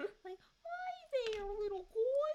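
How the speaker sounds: put-on very high baby-talk voice. Offering to voice a character, showing the voice used for dogs: baby dog voice. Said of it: "my like baby dog voice".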